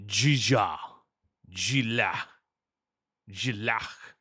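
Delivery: guttural Klingon attempts, word by word; choking Klingon. Shown as a demonstration. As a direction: choke on the Klingon consonants. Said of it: "it sounds like I'm choking".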